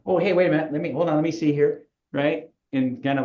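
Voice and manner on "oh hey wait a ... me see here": hammed-up, a bit higher, playing up the discovery; a mock double-take at the name badge; over-dramatized surprise. Shown as a demonstration. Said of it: "I over dramatize it".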